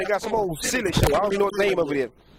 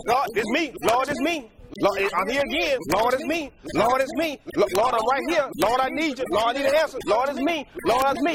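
persistent praying believer; 4 semitones higher than usual. Pretend. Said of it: "You gotta just".

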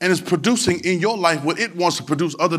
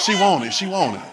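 imitating niece; 3 semitones higher than usual. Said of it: "You supposed to know who she is".

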